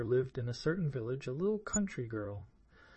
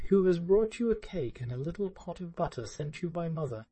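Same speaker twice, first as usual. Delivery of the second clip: put-on wolf putting on a sweet little girl's voice, higher; a wolf mimicking a child, a bit higher; wolf doing a light imitation of a little girl; faking the girl's voice; 5 semitones higher than usual. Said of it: "counterfeiting her voice".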